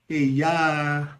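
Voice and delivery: drawn-out sympathetic sigh of a phrase; pity. Shown as a demonstration. Teacher demonstrating pity and sadness, sorrowful. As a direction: stretch the last vowel in sorrow. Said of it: "pity, sadness".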